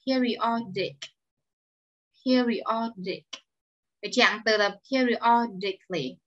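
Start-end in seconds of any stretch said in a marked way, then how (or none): 0.1-1.0 Periodic as peer-ee-OD-ick; model pronunciation. Shown as a demonstration. Teacher models word for the class. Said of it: "Tương tự". 2.2-3.2 Periodic stretched slowly, peer-ee-OD-ick; slow model pronunciation. Shown as a demonstration. Teacher repeats word slowly for learners. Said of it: "Tương tự".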